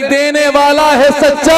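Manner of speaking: rousing call to the crowd. Shown as a demonstration. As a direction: lift it and make the hall answer. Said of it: "ऐसे नहीं".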